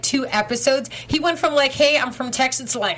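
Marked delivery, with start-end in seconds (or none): 1.7-2.7 a mild Texas twang, barely there; light Texas accent. Retold or imitated. Co-host mimicking the actor's early mild Texas accent. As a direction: say it with just a hint of Texas. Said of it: "it's just so much stronger".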